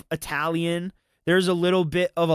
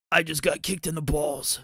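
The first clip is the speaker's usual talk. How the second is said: like you just took a hit below the belt; a light parody of a winded Batman; kicked-in-the-balls voice. Retold or imitated. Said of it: "voice that he had".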